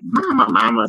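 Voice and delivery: calling out for mama in the retelling, a mild echo of the scream; retold scream. Teen calling down to her mother after the attack, mild retold scream.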